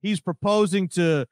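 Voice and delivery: lightly voiced over-the-top radio host; mock Donovan McNabb, mildly hammed up; Donovan McNabb impression. Host mimicking McNabb's radio rant. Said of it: "you don't like my Donovan McNabb impression".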